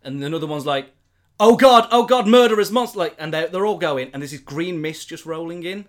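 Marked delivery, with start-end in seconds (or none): 1.4-3.0 high, loud terrified cry; panicked guard. Retold or imitated. Second guard screaming about monsters, high terrified cry. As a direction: shriek in terror as you flee.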